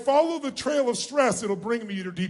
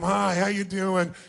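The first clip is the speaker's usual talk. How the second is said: bored greeting; 3 semitones lower, slower than usual. Shown as a demonstration. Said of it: "like it's a total waste of your time".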